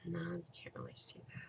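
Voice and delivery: soft whisper to herself. Real, not acted. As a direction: whisper while working. Crafting, muttering to herself.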